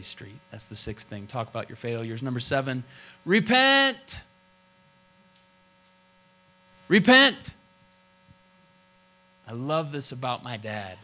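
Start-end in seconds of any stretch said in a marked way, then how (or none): 3.2-7.5 shouted high and loud; repent, ringing out loud; emphatic call. Real, not acted. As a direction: proclaim it like a command. Pastor proclaiming point seven.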